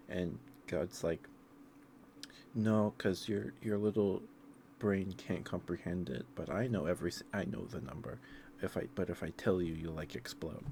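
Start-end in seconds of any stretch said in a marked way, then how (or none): 2.5-10.6 hammed-up condescending God. God refuses Moses, retold.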